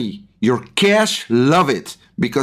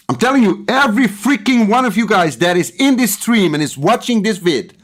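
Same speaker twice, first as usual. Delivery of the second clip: rising fervour, voice pushed way up; getting emotional; 6 semitones higher than usual. Real, not acted. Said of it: "Hmm, I'm getting emotional".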